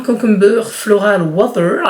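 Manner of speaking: slow English with a French accent; self-mocked English accent. Real, not acted. Vlogger reading an English product label to viewers, self-mocked French-accented English. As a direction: read the English name slowly, proudly French-accented. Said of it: "avec mon magnifique accent".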